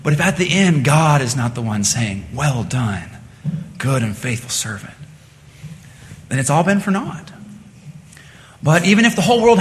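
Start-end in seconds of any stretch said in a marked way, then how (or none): 2.3-4.9 soft, low, measured praise; gentle commendation. Acted. God speaks to a servant at the end, gently approving. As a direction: commend quietly, with a pause between phrases. God's commendation, quoted softly.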